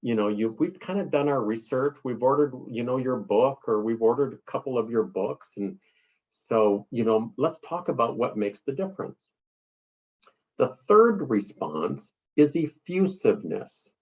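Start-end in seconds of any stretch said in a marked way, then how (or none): 0.0-9.2 reasonable client. Retold or imitated. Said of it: "we want to hear".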